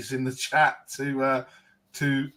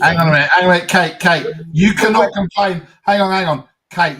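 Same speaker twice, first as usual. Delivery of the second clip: loud interrupting; 5 dB louder, faster than usual. Real, not acted. Cutting in on Kate.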